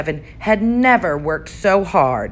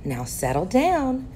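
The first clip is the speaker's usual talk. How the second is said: sweet voice; 6 semitones higher, 4 dB quieter than usual. Acted. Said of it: "said Miss Nelson in a sweet voice".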